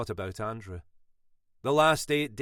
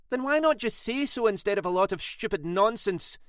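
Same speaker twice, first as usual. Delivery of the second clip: voice cracking; 11 semitones higher, 4 dB louder than usual. A narrator's reading. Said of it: "Her voice cracked, close to tears".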